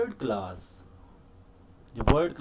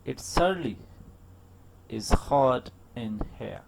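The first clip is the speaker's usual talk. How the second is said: indirect hint; 4 dB louder, much slower than usual. Shown as a demonstration. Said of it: "मैंने जिस तरह sentences बोले".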